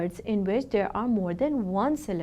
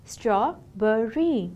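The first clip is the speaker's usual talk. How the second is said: slow, gentler syllable demo; much slower than usual. Shown as a demonstration. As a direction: repeat "Strawberry" slowly and calmly. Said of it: "it has three syllables".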